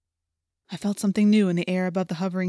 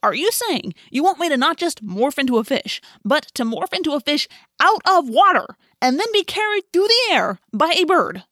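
higher and louder, rising disbelief; incredulous protest; 8 semitones higher, 6 dB louder than usual. A narrator's reading. Marco balking at being carried as a fish, incredulous. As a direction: push back in outraged disbelief.

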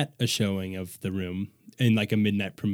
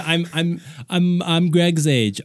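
Tommy voice; 6 semitones higher, slower than usual. Retold or imitated. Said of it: "he says".

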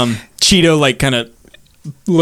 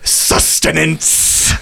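dragon voice; much slower than usual. Acted.

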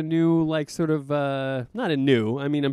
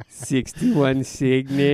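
slowly drawn-out lady voice; a hint of a counter lady; slow bodega lady impression; 2 semitones lower, much slower than usual. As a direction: play the counter lady, dragging it out. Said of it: "that despicable woman behind the counter".

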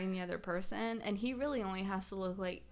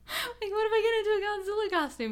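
laughing; 11 semitones higher, 4 dB louder, faster than usual. Acted. Laughing at her own idea.

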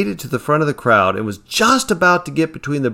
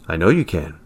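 calm; 6 semitones lower than usual. A narrator's reading. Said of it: "he said calmly".

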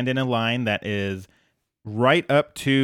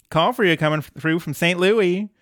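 higher, lightly voiced vintage switchboard operator; old-timey operator voice; 6 semitones higher than usual. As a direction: announce the call like an old operator. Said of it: "old-timey, uh, robot assistant".

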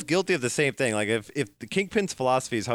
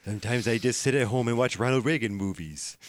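Reagan impression. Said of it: "slip into that voice".

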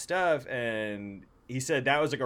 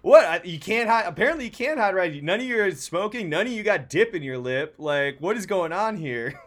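mock incredulous; 4 semitones higher, 5 dB louder than usual. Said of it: "And I'm like".

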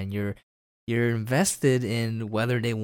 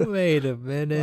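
slow realisation; 6 semitones higher than usual. Retold or imitated. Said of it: "the whole cast is like".

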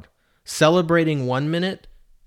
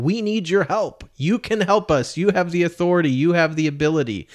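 pleading crowd; 5 semitones higher, 3 dB louder, faster than usual. Retold or imitated. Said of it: "We're saying".

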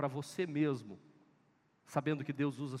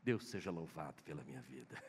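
quiet declaration; 13 semitones lower, 8 dB quieter than usual. Shown as a demonstration. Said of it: "diga assim".

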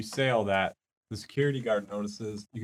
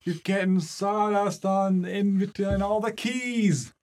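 annoyed janitor voice; 9 semitones higher, 4 dB louder, slower than usual. Acted.

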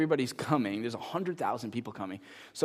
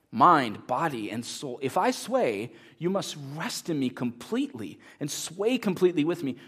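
urgent raised call to the manager, slowing down; retold shout; 3 semitones higher, 4 dB louder than usual. Blondin calling to his manager mid-sway on the wire, urgent raised voice. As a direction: bark out commands to hold still on the wire. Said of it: "Blondin screams out at his manager".

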